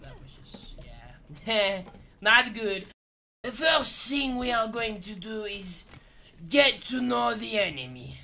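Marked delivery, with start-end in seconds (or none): 3.4-8.2 mock-French game tutor; French-accented step-by-step teaching; put-on French accent. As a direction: instruct in a thick French accent.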